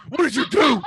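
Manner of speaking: loud, high-pitched outburst; exasperated scolding. Real, not acted. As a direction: yell it in exasperation at the culprit. Scolding Clark for a mishap.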